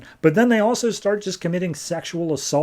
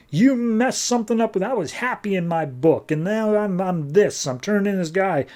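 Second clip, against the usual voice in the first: higher-pitched, acted-out protest; mock upset complaint; 5 semitones higher than usual. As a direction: retell an upset man lashing out in blame. Transformed demon complains in retelling.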